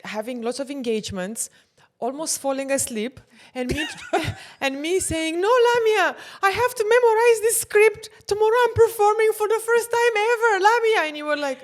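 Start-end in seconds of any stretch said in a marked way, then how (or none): 5.4-11.0 high, loud, frantic pleading; desperate pleading. Retold or imitated. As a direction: beg her friend not to stop, panicky and loud. Retelling her pre-show panic.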